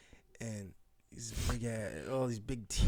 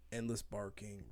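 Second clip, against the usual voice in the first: whispered; 7 dB quieter than usual. Real, not acted. Describing the shelter hallways.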